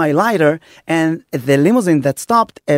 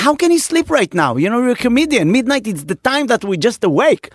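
mock outrage, starting high and quick; retold incredulous protest; 6 semitones higher, faster than usual. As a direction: protest to a friend who wants to quit early. Retelling his protest to tired friend.

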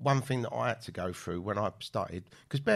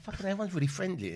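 amazed; 7 semitones higher than usual. Retold or imitated. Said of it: "And you're like".

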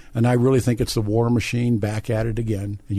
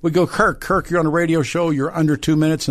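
upbeat host wrap-up; 6 semitones higher than usual. Real, not acted. Host wrapping up radio show.

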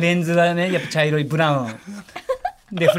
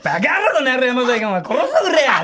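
rough threatening yakuza bark; delinquent tough talk; 5 semitones higher than usual. Retold or imitated. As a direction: snarl it like a street thug. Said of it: "って".

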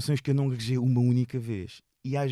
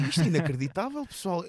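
laughing aside; 5 semitones higher than usual. Retold or imitated. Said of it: "comecei-me a rir assim".

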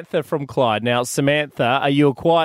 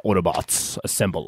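Optimus Prime; 9 semitones lower, 4 dB quieter than usual. Acted. Co-host explaining his joke to the host, deep Autobot-leader impression. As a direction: drop far down and draw out the battle call. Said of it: "Isn't that his voice?".

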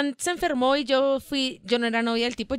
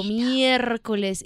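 drawn-out exclamation; 3 semitones lower, much slower than usual. Retold or imitated. Retelling her shocked reaction that night.

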